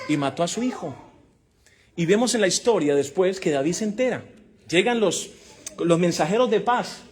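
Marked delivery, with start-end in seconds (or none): 0.1-1.0 shouted climax. Acted. Climax of Absalom's death.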